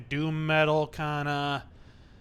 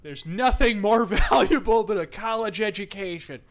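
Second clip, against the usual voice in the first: mock-sincere, breaking into a laugh; sarcastic; 5 semitones higher, 6 dB louder than usual. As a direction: fake earnest praise. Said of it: "I almost said that with a straight face".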